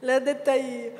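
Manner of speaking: "L'ho detta io." said as a satisfied falling statement; calm, smug statement; proud statement. Real, not acted. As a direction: claim it as your own line. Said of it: "Oh, forte, eh?".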